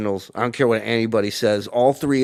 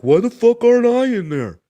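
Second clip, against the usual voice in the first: mock frustrated outburst; 10 semitones higher, 4 dB louder than usual. Retold inner outburst.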